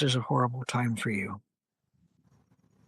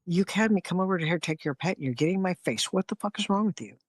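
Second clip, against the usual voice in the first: mimicked hostile comeback; 4 semitones higher, faster than usual. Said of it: "I will mimic what it would look like".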